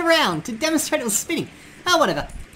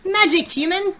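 Papyrus voice. Pretend. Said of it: "I'm the Great Trap Papyrus".

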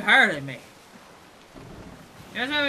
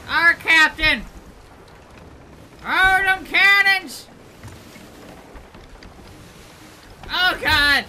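loud hammed-up pirate yells; 5 semitones higher, 5 dB louder, much slower than usual. Player shouting to his captain in hammed-up pirate talk. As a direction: growl it out like a movie pirate. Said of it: "Why am I talking like that?".

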